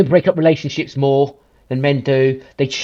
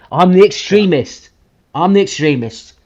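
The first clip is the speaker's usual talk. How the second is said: "extremist" drawn out slow and louder, scoffing; mock indignation; 3 semitones higher, 3 dB louder than usual. Scoffing at critics who call him extremist, mock outrage. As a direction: sneer it back slowly, a bit louder. Mocking being called extremist.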